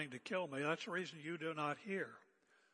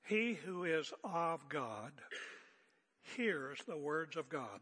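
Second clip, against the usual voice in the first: slow, deliberate, every word weighed; slow emphatic reading; slower than usual. Shown as a demonstration. Preacher to congregation, slow and deliberate. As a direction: lay each word down slowly for the flock. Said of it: "Listen very carefully, folks".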